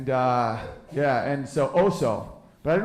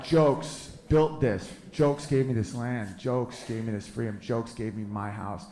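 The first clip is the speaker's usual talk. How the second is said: awed slow; 4 semitones lower, 3 dB quieter, slower than usual. Acted. Grand reverent declaration about home.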